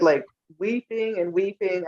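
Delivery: ordinary talk, nothing marked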